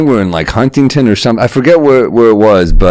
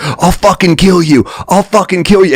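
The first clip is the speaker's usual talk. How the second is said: imitating a furious boyfriend, pitched up high; mock threat; 8 semitones higher than usual. Boyfriend threatening the friend at the bar, mock angry. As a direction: mimic the bar guy's threat, higher and heated. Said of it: "And he's like".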